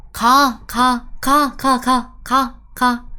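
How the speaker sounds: blunt, loud repeated syllable; rude-sounding. Shown as a demonstration. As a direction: punch out each syllable loudly, a little high. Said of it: "It sounds rude already".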